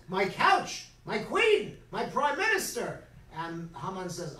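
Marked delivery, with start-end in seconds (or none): 0.1-3.0 higher, louder indignant cries; a king bursting in, scandalized; outraged king. Acted. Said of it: "and he goes".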